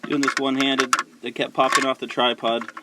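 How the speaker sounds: breathing hard while talking; heavy breathing. Real, not acted. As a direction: talk while a bit out of breath. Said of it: "I apologize for the heavy breathing".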